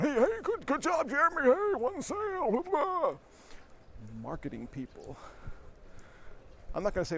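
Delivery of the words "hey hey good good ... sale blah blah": high-pitched mock cheering; hammed-up hype man hollering praise across the room; hype guy. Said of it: "the hype guy over on the side of the room going".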